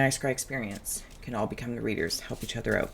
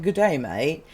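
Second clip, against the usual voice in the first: a hint of an Australian worm, pitched up; Australian accent; 4 semitones higher, 5 dB louder, slower than usual. Reader imitating the Labyrinth worm's greeting, light Australian accent. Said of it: "he has an Australian accent".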